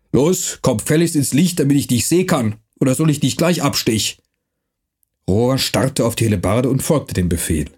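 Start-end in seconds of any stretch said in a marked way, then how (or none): 0.1-4.2 rough dialect voice, lightly done; gruff Franconian watchman. Acted. Night watchman threatening the stranger, gruff dialect. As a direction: bark it like a mercenary guard.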